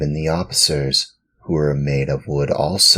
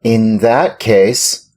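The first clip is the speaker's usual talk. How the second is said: proudly; 8 semitones higher, 9 dB louder, slower than usual. Acted. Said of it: "said Pinocchio proudly".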